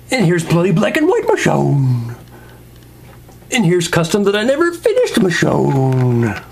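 light showy announcer, names drawn out; playful figure roll-call. Acted. Reviewer showing off figure collection, playful announcing. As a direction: present each with a stretched, rising swoop.

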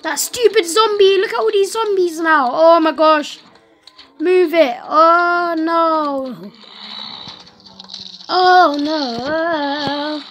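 panicking. Real, not acted. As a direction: fret aloud at the horde of zombies. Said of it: "I'm just panicking too much".

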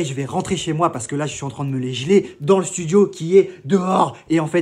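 ordinary talk, nothing marked

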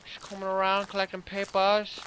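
hammed-up German accent; mock German. Player bargaining with Slender over schnitzel, mock German. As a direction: put on a playful German accent. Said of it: "So Marge is now German".

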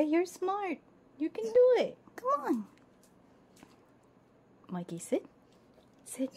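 ordinary delivery

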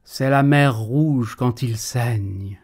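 slow, grave dramatic line. Acted. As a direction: make it ominous.

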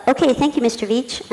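cool, even thanks; calmly said. Retold or imitated. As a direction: keep it composed and polite. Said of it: "I very calmly said".

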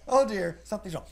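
very high, loud, laughing fluster; dismayed oh dear. Acted. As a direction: squeal it out in comic alarm. Julie worried.

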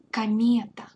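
Комета whispered kah-MYE-ta; whispered repeat. Shown as a demonstration. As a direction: whisper it back for the learner. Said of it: "the reduction of O".

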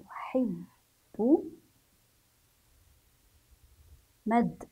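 dictation pace. Shown as a demonstration. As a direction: dictate the sentence word by word. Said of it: "وأبدأ بالكتابة".

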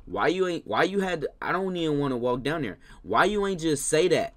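put-on loud exasperated questions at the baby; exasperated complaint. Babysitter complains loudly that the baby wanted the bottle. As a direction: complain loudly like a fed-up sitter.

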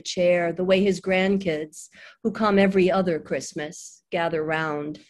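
measured poetry-reading voice; understated recital of a poem. Acted. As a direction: read it as a poem, pausing between long phrases. Reads second poem aloud.

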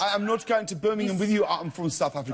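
put-on South African accent, playful. Shown as a demonstration. Showing the host the accent, mock-indignant South African. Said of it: "Oh, that's quite good".

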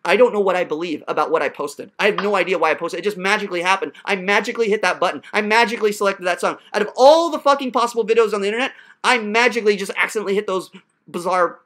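low-pitched sarcastic paraphrase; mock excuse. Teacher restating student's evasion, mock excuse. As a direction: feign cluelessness with heavy sarcasm. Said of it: "you're essentially telling me".

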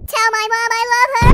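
dramatic shout. Acted. Dramatic dying cry in game.

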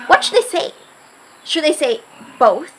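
gasp, then a fast panicked question. Real, not acted. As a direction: rush it out in panic.

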